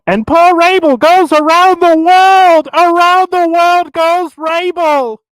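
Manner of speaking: put-on old-time broadcast announcer voice; 1950s narrator. Shown as a demonstration. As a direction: call it like a vintage radio broadcaster. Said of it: "old-time announcing broadcast voices".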